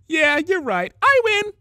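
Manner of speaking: high, loud gleeful claim; sunny triumph. A narrator's reading. Pinkie cheerfully claiming victory over Spike. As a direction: crow the win happily. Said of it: "concluded with a sunny grin".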